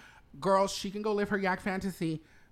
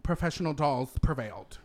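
poised pageant answer; 2 semitones lower than usual. Pretend. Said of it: "And that is my pageant answer".

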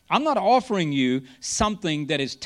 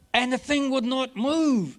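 mock exasperation; 8 semitones higher, slower than usual. Retelling slow laptop frustration.

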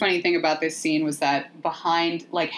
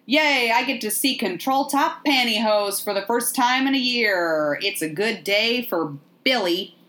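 a hint of a drugged-up patient's higher voice; 4 semitones higher than usual. Drugged patient strapped to a bed, mock dopey delight. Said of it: "drugged out patient strapped to a bed".

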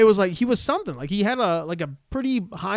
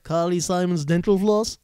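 lightly voiced cartoon quip, slow; a hint of a wisecracking cartoon kid; slow, lightly put-on cartoon punchline; Yakko voice. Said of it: "And I think Yakko's like".

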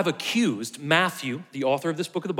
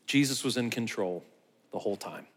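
much lower and softer, dying away; low hush; 5 semitones lower, 6 dB quieter than usual. Acted. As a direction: let it sink, low and quiet. Repeated key line, dropped.

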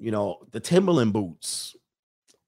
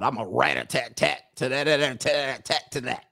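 mock rapper boast. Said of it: "not out here talking about".

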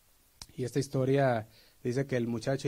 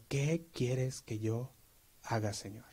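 slow and soft, trailing down; whisper-close surrender to God; humble slow prayer; 5 dB quieter, slower than usual. Shown as a demonstration. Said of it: "decirle al Señor".

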